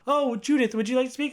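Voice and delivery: lightly imitated caretaker asking Judith to speak; sugary nurse prompt. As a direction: coax Judith like a patient talker. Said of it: "And she goes".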